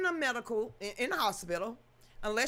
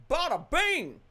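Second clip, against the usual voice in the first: higher, louder, clinched punchline; bada bing; 5 semitones higher, 4 dB louder, slower than usual. Real, not acted. Vlogger clinching her point about cheating. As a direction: slam it home like a punchline.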